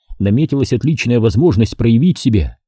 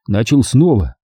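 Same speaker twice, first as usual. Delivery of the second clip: ordinary delivery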